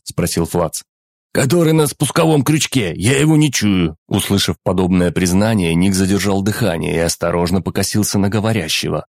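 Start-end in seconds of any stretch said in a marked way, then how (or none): 1.3-4.0 panicky. Acted. Guard panics, finger numb.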